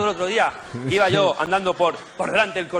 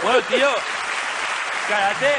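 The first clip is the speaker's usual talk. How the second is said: street vendor voice; 7 semitones higher than usual. Retold or imitated. Vendor voice in the sketch.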